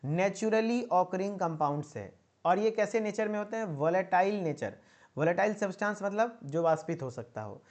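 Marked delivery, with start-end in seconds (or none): 0.1-2.1 very slow, spelled-out dictation. Shown as a demonstration. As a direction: dictate it slowly so they can repeat. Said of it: "मेरे साथ याद हो जाना चाहिए".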